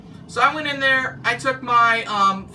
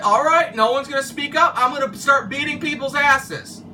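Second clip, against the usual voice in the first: louder, higher mock threat; retold angry threat; 5 semitones higher, 4 dB louder than usual. Angry coworker threatens the silent break room, imitated raised voice. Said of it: "he was pissed off".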